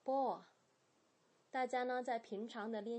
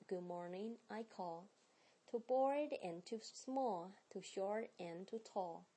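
with feeling. Shown as a demonstration. Teacher showing students how to read with feeling, gentle. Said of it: "带你的情感在里面读啦".

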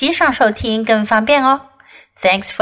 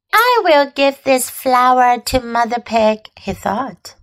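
gentle storybook reading; story narration. A narrator's reading. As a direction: read it like a bedtime story. Story read aloud to children.

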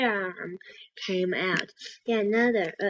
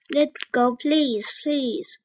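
high, raised storybook shout; pleading shout; 5 semitones higher, 4 dB louder, slower than usual. A narrator's reading. Annie begs the octopus to let go, pleading shout. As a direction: shout a plea, starting loud and pitched up. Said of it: "Annie shouted at the octopus".

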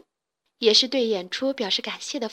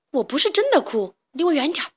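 shouting; 4 semitones higher, faster than usual. Acted. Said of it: "冲他们大叫".

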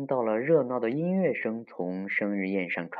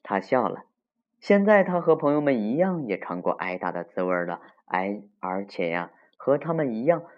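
put-on story reading to children. A narrator's reading. Telling children of Mr. Beaver's spanking, lively storytelling. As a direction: tell it vividly to the little ones.

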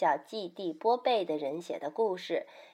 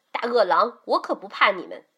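firm, defiant warning; threatening; 5 dB louder than usual. Acted. Mother shows how to face wolves, threatening. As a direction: stand up to them boldly. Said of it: "一边张开手臂威胁他们".

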